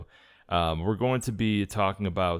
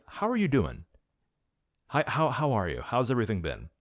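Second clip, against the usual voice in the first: put-on Irish accent; 4 semitones higher than usual. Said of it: "You're gonna be using the accent".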